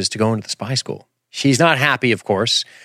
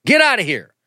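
mock snooty theater company; 9 semitones higher than usual. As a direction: shoo her out in a shrill mock voice. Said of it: "the theater company's gonna be like".

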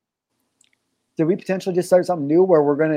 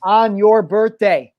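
hyped announcer. Pretend. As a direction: sell it like a show host.

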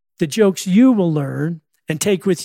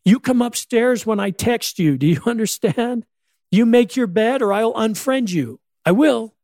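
higher-pitched scolding parent, half-hearted yell; lightly hammed-up scolding; mock parent yelling; 6 semitones higher than usual. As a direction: play-act a parent telling off a kid. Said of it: "When parents yell at their kids nowadays, it's like this".

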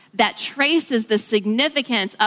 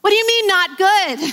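incredulous; 9 semitones higher, 4 dB louder than usual. Pretend. Mock disbelief at God's words.

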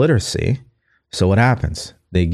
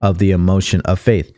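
measured, careful read; slowed-down reading. Shown as a demonstration. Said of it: "slow it down so you guys can pick it up".

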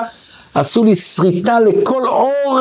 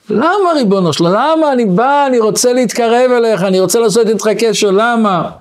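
pleading complaint to God; 5 semitones higher than usual. Retold or imitated. Man complains to God over car.

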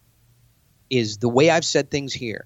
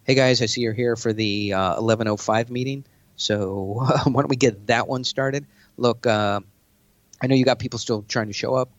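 confident meeting opener. Shown as a demonstration. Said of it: "start it like this".

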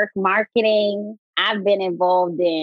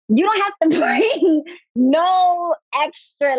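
laughing; 8 semitones higher, much slower than usual. Real, not acted. Laughing while making a point.

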